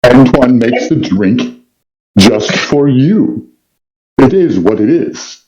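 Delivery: slow sinister villain drawl; sibilant villain voice. Acted. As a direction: lean into the evil, slowly. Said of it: "it sounds something evil".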